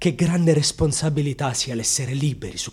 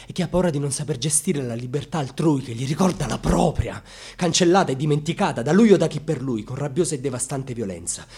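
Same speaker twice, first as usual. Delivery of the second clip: rising tirade; 6 dB louder than usual. Acted. Rising tirade against violence.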